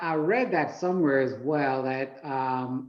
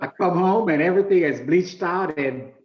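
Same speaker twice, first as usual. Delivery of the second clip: laughing; 4 semitones higher, 7 dB louder than usual. Real, not acted. Laughs at tank disaster joke.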